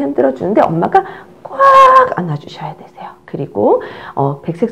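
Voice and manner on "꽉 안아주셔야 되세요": whisper. Shown as a demonstration. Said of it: "soothing demo".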